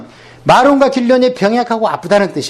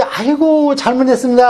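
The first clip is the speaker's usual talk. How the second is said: mild, higher-pitched plea of repentance; submissive apology; 3 semitones higher than usual. Acted. Believer submitting to God after discipline, acted apology. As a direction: plead guilty, lightly acted. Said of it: "하나님한테 순종을 해".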